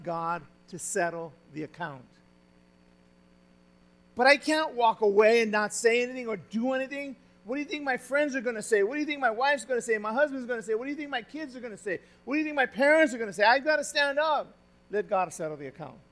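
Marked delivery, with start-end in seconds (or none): 4.1-14.5 quick, defensive protest of someone who must stand up; sermon voicing a churchgoer who won't back down, indignant and rushed; mock indignant believer. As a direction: rattle off the worried questions fast. Voicing a proud believer's objection.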